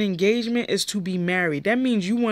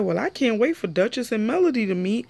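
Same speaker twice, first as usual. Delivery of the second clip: higher, eager mock voice; higher teasing imitation; mischievous Sky; 3 semitones higher than usual. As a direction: sound like you're stirring up drama. Imitating Sky's eager remark.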